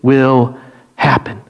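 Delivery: slow, certain declaration; deliberate, unwavering faith; no doubt. Acted. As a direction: state it with total conviction, word by word. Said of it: "there is no doubt".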